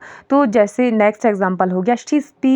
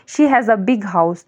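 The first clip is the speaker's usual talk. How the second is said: slow example read; much slower than usual. Shown as a demonstration. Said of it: "teacher gives example sentence".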